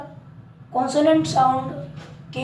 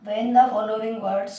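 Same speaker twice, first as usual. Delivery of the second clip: very slow, word by word dictation; drawn-out teacher dictation; much slower than usual. Shown as a demonstration. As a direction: dictate each word for the notebook. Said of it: "dictating rule to write".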